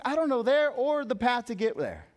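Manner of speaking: high-pitched confused objection; bewildered protest. Retold or imitated. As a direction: retell a disciple utterly lost. Thomas retold in total confusion.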